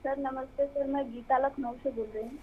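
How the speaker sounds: very faint voice, hard to catch; barely audible. Real, not acted. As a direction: speak so softly it barely carries. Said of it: "आपकी आवाज़ कम आ रही है".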